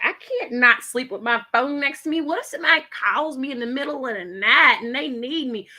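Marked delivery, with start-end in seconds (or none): 2.2-5.7 mock worried self. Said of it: "that's the first thing I said".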